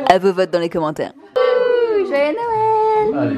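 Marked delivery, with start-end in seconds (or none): 1.4-3.4 excited. Real, not acted. Cheerful holiday sign-off.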